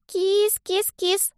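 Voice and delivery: put-on high, slow, drawn-out little girl calling a cat; thin child's call. A narrator's reading. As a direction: coax the cat in a tiny sing-song. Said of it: "повторилось где-то неподалёку".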